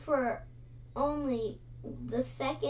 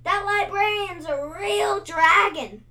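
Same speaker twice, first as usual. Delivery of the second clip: higher, louder, quick warning cry; frightened cry; 8 semitones higher, 9 dB louder than usual. A narrator's reading. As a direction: warn them fast, scared. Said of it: "he cried".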